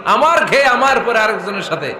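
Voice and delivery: mock-indignant husband demanding answers; angry husband. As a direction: play a husband flaring up. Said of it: "আপনি রেগে মেগে".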